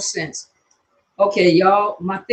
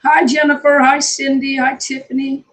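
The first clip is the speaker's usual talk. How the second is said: excited roll-call greetings; 7 semitones higher, 3 dB louder than usual. Real, not acted. Greeting a stream of viewers.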